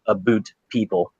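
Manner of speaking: "boot" drawn out with an OO; slow, low "A boot people"; Schmecker's aboot. Retold or imitated. Imitating what Schmecker would do, slow "A boot". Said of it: "sounds like what Schmecker would do".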